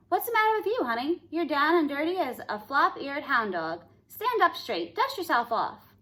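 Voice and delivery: put-on high, brisk old cowgirl scolding; bossy fairy godmother. A narrator's reading. Godmother scolding Cindy Ellen to shape up, high brisk nagging. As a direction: snap her out of her moping.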